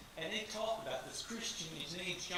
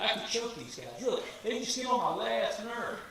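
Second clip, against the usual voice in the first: exasperated, louder, leaning on I; venting with real annoyance; a frustrated I could choke these guys; 4 semitones higher, 7 dB louder than usual. Real, not acted.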